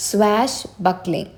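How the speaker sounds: "Swashbuckling" slowly, falling at the end; drawn-out teaching take of "Swashbuckling"; pronunciation demo. Shown as a demonstration. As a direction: model "Swashbuckling" for learners. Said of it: "ഇത് pronounce ചെയ്യാൻ പ്രത്യേകിച്ചൊന്നുമില്ല".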